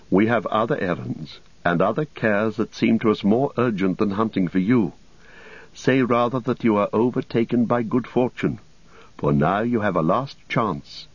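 lightly voiced serene lady; slightly lifted, composed warning; Galadriel. Story figure Galadriel speaks.

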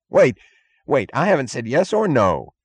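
a panicked, pleading cry; frightened cry. A narrator's reading. Guard cringing against the door, cries out in fear. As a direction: cry out to stop her counting. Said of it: "he cried".

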